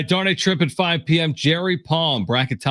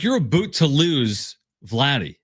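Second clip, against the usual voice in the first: put-on Canadian accent; slower than usual. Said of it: "Would you do it in a Canadian accent".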